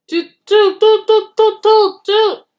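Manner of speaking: high, loud triumphant tooting; jeering toots. A narrator's reading. Bertie the bus cheering as he spots the train. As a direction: crow in triumph from the hilltop. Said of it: "he jeered".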